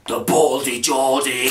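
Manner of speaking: slow, menacing announcer voice; lightly done devilish voice; devilish deep voice. Shown as a demonstration. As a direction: drag it out like a villain. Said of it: "devilish, like, deep voice".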